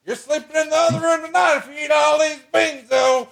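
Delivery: very high, hammed-up redneck voice; squeaky put-on camper voice bragging to his wife; mock hillbilly husband. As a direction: play the cocky backwoods husband, way up high. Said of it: "You're like".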